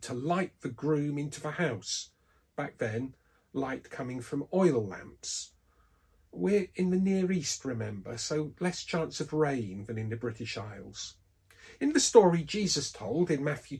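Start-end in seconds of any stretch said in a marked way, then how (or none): none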